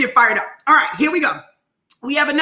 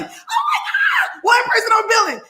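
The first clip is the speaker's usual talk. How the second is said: thrilled shriek; 9 semitones higher than usual. Retold or imitated. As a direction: squeal it out in disbelief. Reacting to client's first billing.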